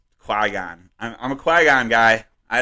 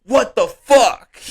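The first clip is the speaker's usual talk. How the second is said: high, slow, loud mock disbelief; hammed-up baffled outburst; baffled Reva; 12 semitones higher, 5 dB louder, slower than usual. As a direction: drag out a stunned what the fuck. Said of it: "she's just like".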